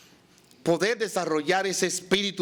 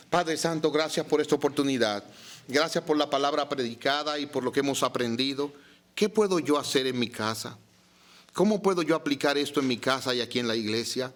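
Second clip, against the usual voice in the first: closing prayer; 5 semitones lower than usual. Real, not acted. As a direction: lead the congregation in prayer, sinking toward the amen. Dirige la oración final. (oración grave y recogida)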